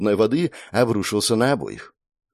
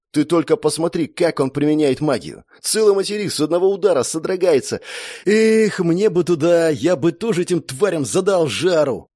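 admiring; 7 semitones higher than usual. A narrator's reading. Brother gushing to sister about the god's power, excited. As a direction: gush over the hero's magic. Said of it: "с восхищением продолжив".

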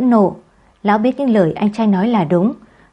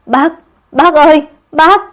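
much higher, loud crying out; wailing plea; 8 semitones higher, 8 dB louder than usual. A narrator's reading. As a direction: wail for the uncle in despair. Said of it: "lăn lê ra khóc lóc cầu xin".

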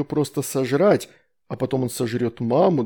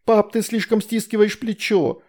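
1 pleading; 8 semitones higher than usual. A narrator's reading. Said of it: "взмолилась Астрид".

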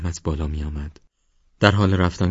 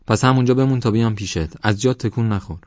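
calling out; 5 semitones higher, 4 dB louder than usual. Acted. Calling to stay put.

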